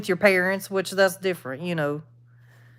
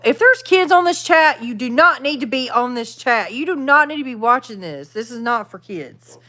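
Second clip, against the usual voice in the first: firm scolding. Real, not acted. Streamer orders kids off her chat, scolding. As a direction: lay down the rule, word by word.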